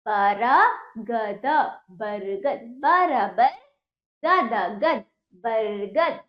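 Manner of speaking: बरगद stretched out slowly, letter by letter; syllable by syllable. Shown as a demonstration. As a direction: break बरगद into slow separate sounds. Teacher breaks word into letters.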